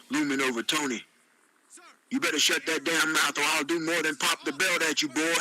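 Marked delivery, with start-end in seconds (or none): 2.1-5.3 mildly menacing warning; threatening. Acted. Ron looms over Tony, mildly threatening. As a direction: threaten him with understated menace. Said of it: "Ron said in a threatening tone".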